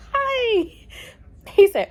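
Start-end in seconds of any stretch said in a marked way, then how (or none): 0.1-0.7 high, loud greeting through laughter; laughing greeting. Retold or imitated. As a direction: squeal a hello while laughing, as retold. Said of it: "All I could do was laugh and say".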